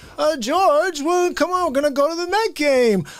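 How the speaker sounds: put-on voice, pitched very high. Trying an impression of Jerry Seinfeld talking to George. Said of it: "do, uh, Seinfeld into Costanza".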